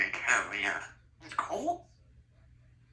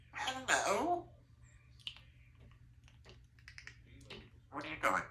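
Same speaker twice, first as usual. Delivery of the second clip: put-on talking to a baby; 3 semitones higher than usual. High-pitched talk to baby.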